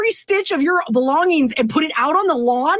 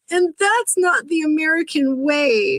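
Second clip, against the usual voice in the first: slow, mock-solemn imitation of a whiny official; lightly mocking retelling of his line; mocking the commissioner; slower than usual. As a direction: parrot his complaint back with mock gravity. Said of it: "he's crying because people are outside".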